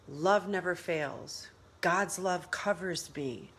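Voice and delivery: slow, quiet, steady affirmations; calm declaration. Shown as a demonstration. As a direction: declare each line with calm faith. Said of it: "you declare".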